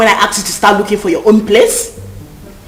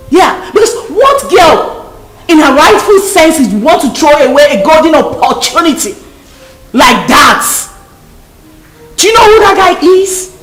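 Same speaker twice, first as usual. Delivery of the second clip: raised, furious berating; angry scolding; 2 semitones higher than usual. Acted. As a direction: tear into her for throwing it away. Scolding her about refusing Tony.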